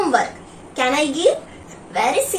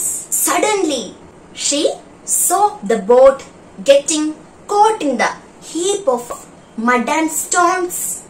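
story read aloud. Acted. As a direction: read it like a gentle class storyteller. Teacher rereads the story.

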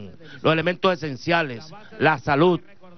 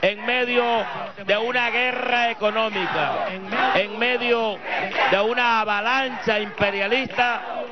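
rousing speech; 2 semitones higher than usual. Real, not acted. Rally speech building to president.

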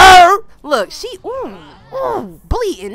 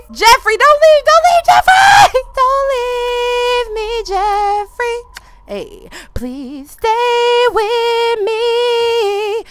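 mock pleading; 6 semitones higher, much slower than usual. Begging Jeffrey not to leave.

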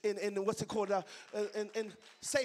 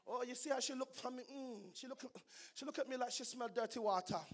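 put-on light Jamaican accent gossip; 3 dB quieter than usual. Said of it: "practicing my Jamaican accent".

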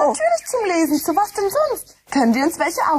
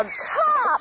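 Anstrengungslaut; 6 semitones higher, 4 dB quieter than usual. Acted. Kind schlägt mit Buch nach Kastanie.

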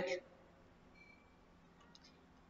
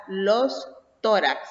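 "los tórax" said slowly, leaning on "los"; teacher slowing down to show the plural; slow teaching stress; slower than usual. Shown as a demonstration. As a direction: drag out "los tórax" so the class hears the article. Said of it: "con las palabras que terminan en X".

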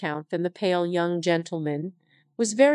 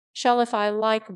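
growled. Acted. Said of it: "growled Orlick".

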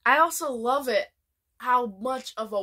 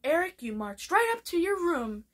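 scolding mom; 6 semitones higher than usual. Retold or imitated. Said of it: "And then she's like".

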